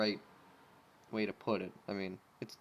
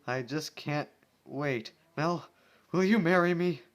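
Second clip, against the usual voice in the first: 1 mock proposal; 5 semitones higher, 8 dB louder than usual. Proposing to a watermelon.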